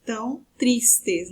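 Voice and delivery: slow, separated syllables. Shown as a demonstration. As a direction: break the verse into its syllables, drawing each out. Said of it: "por exemplo, as sílabas gramaticais".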